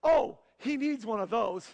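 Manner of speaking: cracking up at the joke; laughing wife. Retold or imitated. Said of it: "And she goes".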